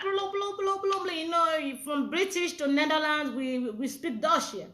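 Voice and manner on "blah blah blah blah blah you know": higher-pitched run of mock babble; a hint of mimicked English jabber; mock chatter. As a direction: lightly imitate someone's incomprehensible chatter. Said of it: "you like blah".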